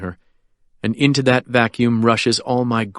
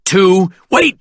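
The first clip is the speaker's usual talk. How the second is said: tense countdown; 7 semitones higher, 5 dB louder, slower than usual. Acted. Countdown during armed standoff.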